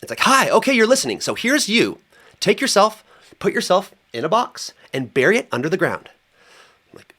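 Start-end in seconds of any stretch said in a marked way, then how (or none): 0.2-6.1 high, sweet sing-song spirit voice talking down to him; high cutesy medicine voice. Retold or imitated. Plant spirit coaxing him in a high cutesy voice. Iboga voiced as cute guide.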